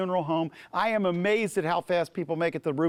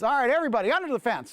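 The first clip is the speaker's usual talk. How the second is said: rallying call; 6 semitones higher, faster than usual. Acted. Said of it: "little Moses bunny leader says".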